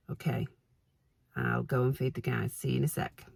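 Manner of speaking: hoarse from hay fever, croaky throughout; croaky, rough hay-fever voice. Real, not acted. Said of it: "I'm sorry about my croaky voice".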